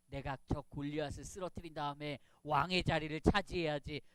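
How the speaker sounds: hint of a storybook villain; mock scheming. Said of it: "이런 생각을 했을까요?".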